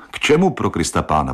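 quick, puzzled exclamation; baffled, a bit fast; a man taken aback, asking fast; surprised. Acted. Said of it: "podivil se".

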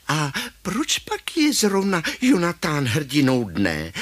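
high grandma, querying and objecting; grandma's voice. Acted. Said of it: "Ale babička se ptá". (vysoký hlas babičky)

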